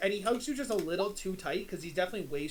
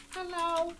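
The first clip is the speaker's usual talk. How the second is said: high, sweet little-brother voice; childlike Teeny greeting; 9 semitones higher than usual. Acted. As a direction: chirp it up high like an eager child. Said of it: "and he goes".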